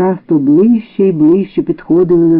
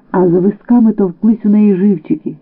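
ordinary delivery, nothing marked

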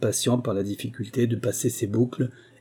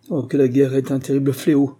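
dismayed lament; 3 semitones higher, 5 dB louder than usual. Acted. Curé hearing of the theft, dismayed lament. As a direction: lament aloud, a little louder.

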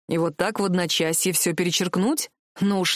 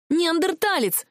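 higher, yelled insult; angry yell; 8 semitones higher, slower than usual. A narrator's reading. Heroine shouting at the prince mid-fight, angry yell. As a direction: hurl the insult at him. Heroine yells while throwing things.

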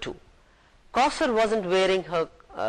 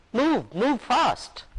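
slow, higher mock shout; mock coach shout; 8 semitones higher, much slower than usual. Coach shouting at the players, mild mock yell. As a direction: call it out like a coach, drawn out. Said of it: "The coach shouted".

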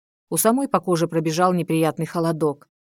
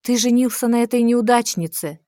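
higher and louder in amazement; astonished; 6 semitones higher, 4 dB louder than usual. A narrator's reading. Rival learning he married the heroine, astonished. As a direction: gasp it out in disbelief. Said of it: "изумилась Аркханна".

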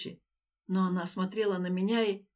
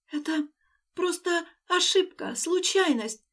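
raised voice; 9 semitones higher, slower than usual. Acted. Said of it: "Лея чуть повысила голос".

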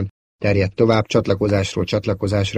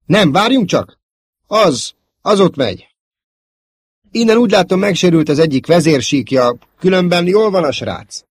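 high, loud, excited relief; voice shooting up; 9 semitones higher, 6 dB louder than usual. A narrator's reading. Pilot suddenly spotting his friend alive, voice shooting up. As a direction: let the voice leap high with sudden hope. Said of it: "Aztán magasra csapott a hangja".

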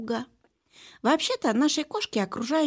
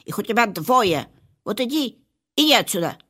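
louder, haughty shooing off; snooty bored cat; 7 dB louder than usual. Acted. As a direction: brush her off, snooty and loud. Cat shooing narrator away.

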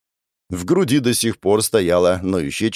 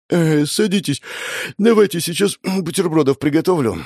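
higher sleepy voice; yawning Vika; 6 semitones higher than usual. Acted. Vika yawns and invites the sisters to sit, higher sleepy voice. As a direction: offer breakfast through a yawn. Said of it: "зевнула Вика".

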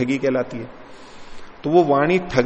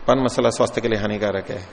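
hurried legal-warning voice, slightly lower; fast disclaimer read; 3 semitones lower, faster than usual. Shown as a demonstration. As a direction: rattle off the warning like a quick ad disclaimer. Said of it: "तो वो उसको बुलवा करके और उसको तेज गति से करते हैं". (तेज़ी से पढ़ी गई चेतावनी)

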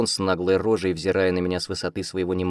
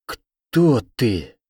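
loud demand; 5 semitones higher, 6 dB louder than usual. A narrator's reading.

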